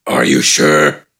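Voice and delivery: very low, slow, rough orc rumble; grudging brute. A narrator's reading. Gafgarn grudgingly agreeing to help, low and slow. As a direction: agree reluctantly, deep.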